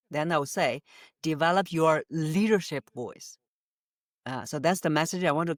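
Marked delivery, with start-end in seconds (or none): 1.2-3.4 "leadership" lifted and stressed in "Develop your leadership voice". Shown as a demonstration. Speaker selling the book as being about leadership, "leadership" stressed. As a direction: hit "leadership" so it sticks. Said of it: "If I want to re-, to remember leadership".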